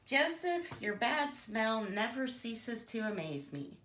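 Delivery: a lightly voiced snide pig, jumping high on the names; rude pig. Bertie insulting his neighbours, a hint of snide pig. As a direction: sneer at each neighbour by name.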